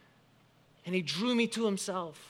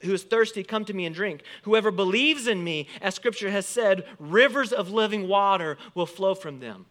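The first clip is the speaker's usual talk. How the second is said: loud, raised proclamation read from scripture; 3 semitones higher, 6 dB louder than usual. Retold or imitated. Preacher reading Jesus' words at the festival, loud voice. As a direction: call it out to a festival crowd. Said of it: "and in a loud voice".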